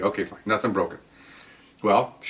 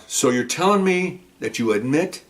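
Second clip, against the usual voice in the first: slow accusation; slower than usual. Retold or imitated. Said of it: "He goes".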